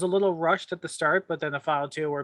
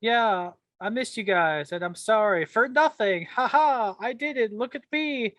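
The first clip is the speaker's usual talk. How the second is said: higher, slow Irish leprechaun voice; 6 semitones higher than usual. Retold or imitated. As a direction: gloat like a cheeky leprechaun. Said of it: "The leprechaun from The Simpsons".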